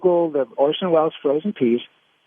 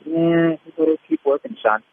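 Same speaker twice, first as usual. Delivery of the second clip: put-on gruff old-timer. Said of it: "I thought I was good at my job".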